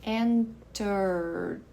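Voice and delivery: Entered ending enterd, two syllables; E dropped. Shown as a demonstration. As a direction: say Entered with the final E silent. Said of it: "esse E aqui sumiu".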